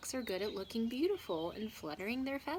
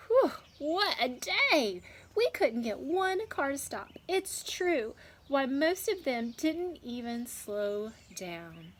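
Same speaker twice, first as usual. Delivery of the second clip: high, loud, slow worn-out hen voice; a clucked-out hen huffing after a long day; tired hen; 6 semitones higher, 6 dB louder, slower than usual. Acted. Exhausted hens complain to peacock.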